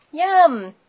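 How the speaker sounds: high, loud exclamation; delighted. A narrator's reading. Cats get their milk at last, delighted. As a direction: relish it with glee. Class finally gets milk.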